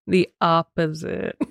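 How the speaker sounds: breaking into a laugh mid-phrase. Real, not acted. Co-host admitting she had the opposite reaction, laughing.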